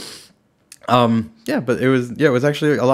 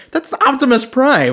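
higher slow mock Optimus Prime; Optimus Prime joke; 12 semitones higher, 3 dB louder than usual. Joking the voice was Optimus Prime. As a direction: ham up a robot hero. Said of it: "I was like".

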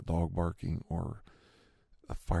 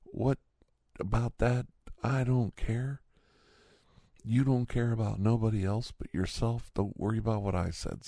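higher-pitched, defiant comeback; retold yell back; 5 semitones higher than usual. Man yelling back at scolding neighbor, retold defiant yell. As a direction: imitate yelling back across the yard. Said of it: "I yelled back".

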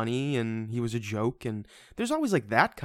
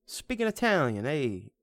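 mock Italian accent; 4 semitones higher, slower than usual. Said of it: "it would just say in the subtitles".

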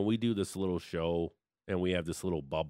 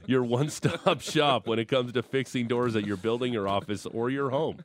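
sponsor read. Acted. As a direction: sell it like a live radio spot. Reads a sponsor ad.

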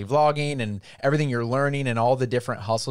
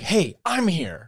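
ignored local; 5 semitones higher, much slower than usual. Retold or imitated. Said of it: "I was like".

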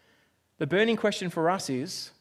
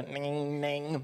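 dial-up modem noise; 5 semitones lower, 9 dB quieter than usual. Retold or imitated. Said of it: "make that noise".

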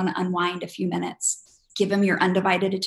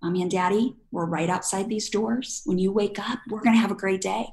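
calm reassurance. Shown as a demonstration. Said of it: "You're gonna say".

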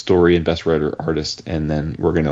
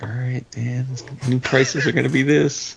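Felix; 6 semitones higher than usual. Retold or imitated. Imagines Felix announcing prices.

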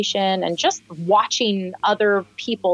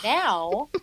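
laughing; 13 semitones higher than usual. Real, not acted. Still laughing after the laugh.

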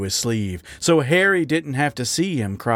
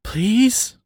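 small, higher-pitched plea; pleading; 10 semitones higher than usual. A narrator's reading. Raccoon nose to nose with his angry lover, pleading. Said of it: "Wally whispered, staring pleadingly".

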